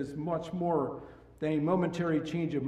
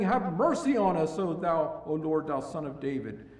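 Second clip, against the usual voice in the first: crying out louder; 4 semitones higher, 7 dB louder than usual. Acted. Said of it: "they cried the more".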